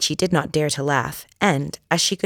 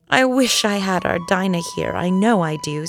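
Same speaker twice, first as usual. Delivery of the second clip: wistful aloud; 4 semitones higher than usual. Acted. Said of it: "said Alice aloud".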